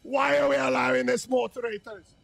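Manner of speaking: exasperated, incredulous appeal; mock outrage. Streamer demanding a ban from moderators, mock outrage. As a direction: protest to the moderators as if scandalized.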